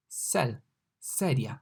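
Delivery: cell then sedia, same S; comparison demo. Shown as a demonstration. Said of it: "like S in cell".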